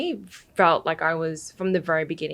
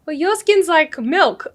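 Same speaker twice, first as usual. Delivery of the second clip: laughing comeback; 10 semitones higher, 7 dB louder, slower than usual. Retold or imitated. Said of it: "and I'd be like".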